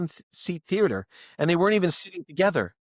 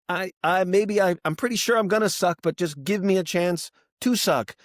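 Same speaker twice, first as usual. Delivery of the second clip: pleading; 5 semitones higher than usual. Retold or imitated. Opener pleads with hostile heckler.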